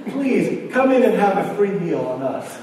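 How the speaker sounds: high-pitched begging, starting highest; hammed-up imploring plea; imitating tearful pleading. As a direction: act out a desperate invitation. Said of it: "a man who was virtually almost in tears".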